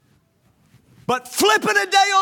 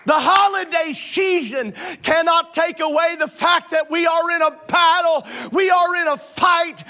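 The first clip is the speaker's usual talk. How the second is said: preaching at full force; 3 semitones higher than usual. Acted. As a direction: preach it hard.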